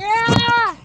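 high, drawn-out "aah"; effort yell. Real, not acted. Opening the fort door by foot with a high strained yell. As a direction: yell out as you shove with your foot.

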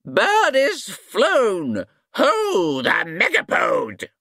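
yelled hunting cry. A narrator's reading. A wizard rallying the hunt, high slow yell. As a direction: yell the chase on, staff in the air. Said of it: "waved his staff in the air and yelled".

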